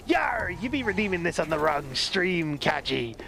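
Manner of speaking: hammy pirate growl. Pretend. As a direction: play it as a jolly stage pirate. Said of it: "We be making pirate voices".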